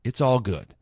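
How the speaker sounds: usual speaking voice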